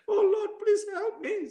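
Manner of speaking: high, tearful plea; calling on God. Retold or imitated. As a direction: act out begging for help through tears. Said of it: "Di situ saya panggil Tuhan".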